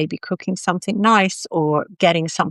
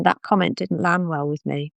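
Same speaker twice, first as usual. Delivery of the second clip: calm. Shown as a demonstration. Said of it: "in quite a quiet, calm, reasonable voice".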